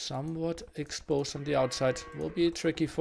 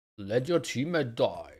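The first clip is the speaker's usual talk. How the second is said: put-on, dropped, bass-heavy deep voice; 3 semitones lower than usual. A game commentator redoing his own remark in a deep voice. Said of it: "have that put in in a deep voice".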